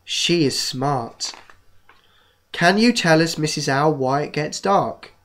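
slow storybook reading voice; reading to children. Acted. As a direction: read it like a bedtime story. Reads a children's book aloud.

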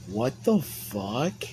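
slow, drawn-out disbelief; stunned disbelief. Retold or imitated. Friend reacting to the lean bottle, stunned and drawn out. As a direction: stretch each word out, acting stunned.

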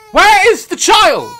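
exasperated mock yell searching. Real, not acted. Searching, louder repeat.

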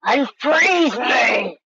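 drawn-out, very slow call to be unfrozen; pleading cry. Real, not acted. Frozen gamer begging his team, in a slow drawn-out cry. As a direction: stretch out the plea.

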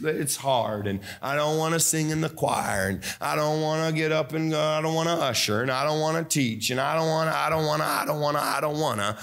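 mock whining; lightly voiced grumbling church worker; whiny complainer. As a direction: imitate a sulky worker moaning. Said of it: "you're sucking on lemons".

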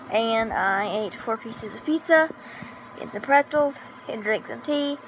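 breathless after eating; out of breath, catching air between words. Real, not acted. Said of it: "that's why I sound really out of breath".

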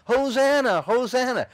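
high, loud Hosanna cry; hollering. Retold or imitated. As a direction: call it out to the crowd.

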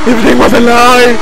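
dramatic cry at normal pitch; anguished cry. Acted. Player betrayed after Amy's death, anguished cry. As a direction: declaim the betrayal.

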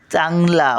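"चांगला," मधला पहिला अक्षर उचलून; उच्चार उचलून. Shown as a demonstration. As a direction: lift and hold the first syllable of "चांगला,". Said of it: "उचलून धरतात". ("चांगला," उचलून धरून म्हणा)

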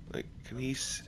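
hushed whisper. Real, not acted. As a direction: breathe the words, unvoiced. Sneaking near an enemy.

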